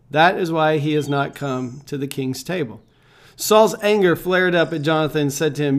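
measured Bible reading to the congregation; scripture reading. Acted. Reads scripture aloud.

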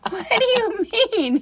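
high, drawn-out mock disbelief, laughing through it; incredulous mom. Mom retelling her reply to her son's excuse, incredulous. Mother baffled by son's complaint.

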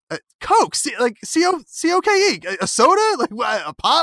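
high-pitched exasperated spelling-out. Retold or imitated. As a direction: retell being fed up at not being understood. Acted quarrel, exasperated at clerk.

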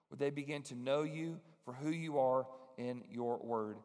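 measured prayer voice with slowed stretches; closing prayer. Acted. Pastor praying over the congregation, earnest and measured. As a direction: pray it earnestly over the listeners.

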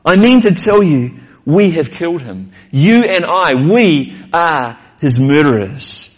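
emphatic storyteller reading a speech; measured, declamatory delivery; dramatic reading. A narrator's reading. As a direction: read it out as a declaration to a crowd. Reads madman's speech aloud.

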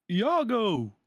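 high, loud cry of grief; anguished cry. Retold or imitated. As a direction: call out as a friend falls. Iago shot, someone cries out.

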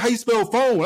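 high, loud mock mother scolding; hammed-up angry mom voice; imitated scolding mom. Mom quizzing.

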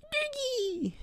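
put-on very high squeaky kid call; little brother voice. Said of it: "Jake little brother noises".

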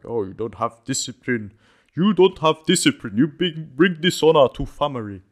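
loud, high mock Japanese accent. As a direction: ham up a Japanese accent, scolding. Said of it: "that was my Japanese accent attempt".

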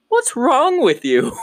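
high, slow mock scolding; exasperated partner. Partner to the timid ranger after he drove off, high mock scolding. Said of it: "my partner looks at me and she goes".

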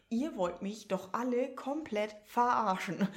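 slow exasperated outburst, building to loud; genervter Ausruf. Retold or imitated. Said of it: "Oh, war ich genervt". (genervt und fassungslos nachgespielt)

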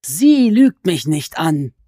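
high, slow, wheedling creature voice that climbs on each nein; sly goblin voice. Acted. Goblin crouched over Alice, complaining she is a sorceress, in a high sly voice. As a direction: stretch the words like a gloating, sulky goblin. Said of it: "beharrte der Kobold".

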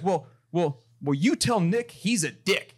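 mock angry caller. Customer snapping at the CEO before hanging up, mock furious. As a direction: sputter the insult before hanging up.

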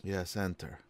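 softly, calmly from meditation; quiet. Acted. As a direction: answer hushed and still. Character answers from meditation.

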